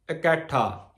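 ਇਕੱਠਾ said "ikaṭhā", with sihari on ਈੜੀ; ਇਕੱਠਾ with a short i at the start; pronunciation of ਇਕੱਠਾ. Shown as a demonstration. Teacher corrects the congregation's ਇਕੱਠਾ. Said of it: "ਇਕੱਠਾ ਨਹੀਂ ਕਹਿਣਾ".

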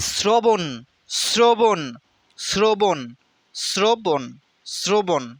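শ্রবণ as "srobon", with an s; repeated pronunciation drill. Shown as a demonstration. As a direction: drill শ্রবণ slowly, hissing s and o vowels. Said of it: "এটা আমি কেন বারবার পড়তেছি". (শ্রবণ বারবার "স্রোবোন্")

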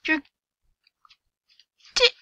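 high, loud angry shout; angry yell. Real, not acted. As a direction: yell it at him. Yelling at other player.

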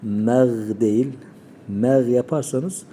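meg with a thin e vowel; student error; wrong thin meg. Shown as a demonstration. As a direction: show the thin mistake. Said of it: "Sıfat aktarımı yapılıyor".

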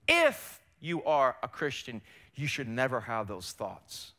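drawn-out IF, slow accusation; slowly sow doubt, dropping away at the end; lightly voiced tempter, slow and deliberate; enemy's taunt. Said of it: "What does the enemy say?".

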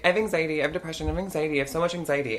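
lightly put-on self-pity; mocked coworker. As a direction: list it off like a whiny coworker. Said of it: "But she'd be like".

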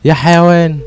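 yelled insult, high and loud; angry yell. Real, not acted. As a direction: snap it at the screen in real anger. Gamer cursing at the game. (زعيق بغضب حقيقي)

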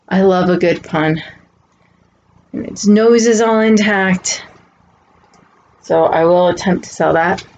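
sniffly allergy voice; talking through sniffles; sniffling. Real, not acted. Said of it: "Sorry about my sniffling".

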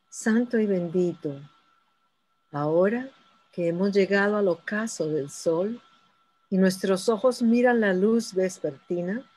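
measured, solemn hymn prayer; prayer recitation. Acted. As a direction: intone it reverently, unhurried. Leads evening hymn prayer.

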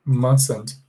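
"Mustn't" as MAS-unt, t silent; "Mustn't" with the middle t dropped. Shown as a demonstration. Teacher pointing at the board, modelling mustn't. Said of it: "Aqui, ó, nessa parte".

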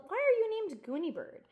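put-on eager kid calling across the room. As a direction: call out from your seat. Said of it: "Nicholas called".

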